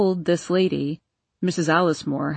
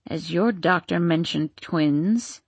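put-on perplexed old crone; 3 semitones lower than usual. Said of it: "asked the old crone with a perplexed frown".

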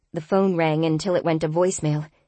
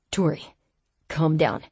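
calm and level. Acted. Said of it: "Ezra's level voice, meltingly smooth".

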